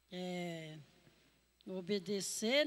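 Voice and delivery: usual speaking voice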